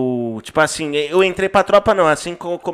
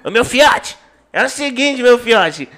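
higher, lively imitation of a friend; imitating Biel's way of talking; 3 semitones higher than usual. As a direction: do his buddy's voice, pitched up. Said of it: "do jeito dele, ele fala".

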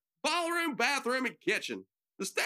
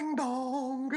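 doorbell imitation; 2 semitones higher than usual. Imitates the doorbell before narration.

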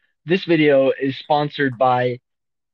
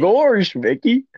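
Goofy; 4 semitones higher, slower than usual. Acted. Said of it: "you have to talk to Goofy".

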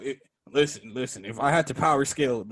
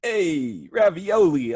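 imitating Uncle Nino; 3 semitones higher, 4 dB louder, much slower than usual. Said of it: "He's and then say, like, the last two words".

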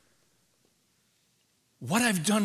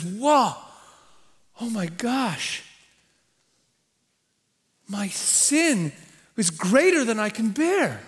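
remorseful Cain; 2 semitones higher, slower than usual. Acted. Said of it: "So he says".

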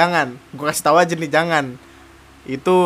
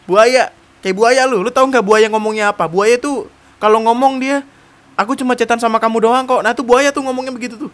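ejekan keras; 5 semitones higher, 5 dB louder than usual. Real, not acted. Mengejek cowok buaya.

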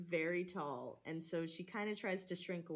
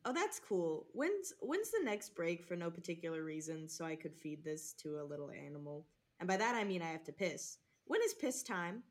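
high, slightly louder nervous voice; nervous caught camper; 4 semitones higher, 4 dB louder than usual. Acted. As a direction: cover up awkwardly.

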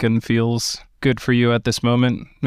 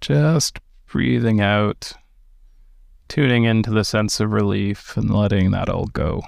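calm, unhurried meditation guidance; guided meditation. Acted. Teacher guiding listeners through meditation, in a calm guiding voice. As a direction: ease listeners into stillness with gentle pacing.

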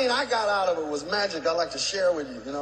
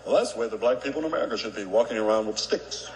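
lower, fast send-up of a white visitor; mock white tourist; 11 semitones lower, faster than usual. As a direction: rattle it off low as a clueless white tourist. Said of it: "'Cause white people, you'll go there and you'll get ideas".

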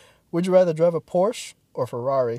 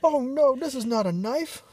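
hammed-up Australian "crikey", pitched up; Steve Irwin Australian accent; 7 semitones higher than usual. Joking as Steve Irwin spotting a crocodile, mock Australian accent. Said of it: "Call me Steve Irwin".

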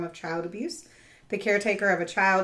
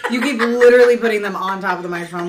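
laughing while scolding; 3 semitones higher, 11 dB louder than usual. Real, not acted. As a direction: laugh through the complaint. Laughing complaint at cohost.

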